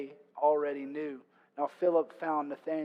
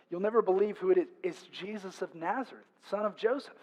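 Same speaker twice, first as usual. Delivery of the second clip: breathless-news style reveal, lightly acted; teasing reveal; 3 semitones higher than usual. Philip breaking the news to Nathanael, teasing reveal. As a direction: build up to the big name. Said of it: "emphasis given by Joseph".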